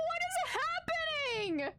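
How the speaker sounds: high slow anguished question; distressed disbelief. Real, not acted. Streamer stunned that Calm is dead, high anguished cry. Shocked by character death.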